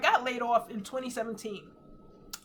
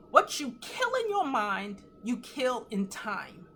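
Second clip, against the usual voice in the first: slow, weighty statement; slower than usual. Retold or imitated. Sharing a revelation from the shower, slow and weighty. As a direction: let each word land slowly.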